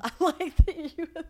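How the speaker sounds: laughing while repeating. Retold or imitated. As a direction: giggly repeat of the line. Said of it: "repeating his line".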